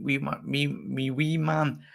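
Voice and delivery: put-on slow, drawn-out Scottish accent. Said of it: "I love Scottish people".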